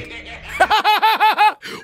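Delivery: high-pitched real laugh; burst of laughter. Real, not acted. Viewer watching the animation go wrong, high laughter.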